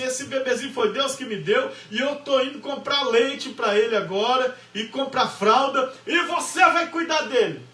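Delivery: wife's retort building to a shout; defiant shout. Retold or imitated. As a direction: throw the last words back at him. Wife defiant in the quarrel. (esposa desafiando o marido, terminando aos gritos)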